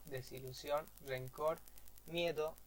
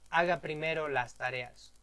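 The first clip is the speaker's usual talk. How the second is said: louder, firm order; 6 dB louder than usual. Acted. Teacher demonstrating an order about homework, firm and louder. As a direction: tell them plainly to do homework first.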